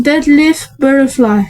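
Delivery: slow, careful English pronunciation; English accent. Real, not acted. Vlogger showing off the card's English name, English accent. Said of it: "J'ai un magnifique accent anglais".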